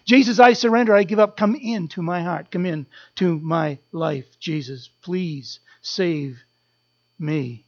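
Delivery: dropping to a hushed, slowing plea. Acted. Preacher voices sinner's prayer.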